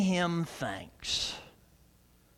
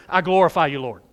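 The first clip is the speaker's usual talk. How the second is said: a bit louder than the first take, a plain declared line; the same phrase, said more firmly; mock praise line, louder; 2 semitones lower, 5 dB louder, faster than usual. Shown as a demonstration. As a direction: toss it out as empty words. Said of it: "You do not glorify the Lord by saying".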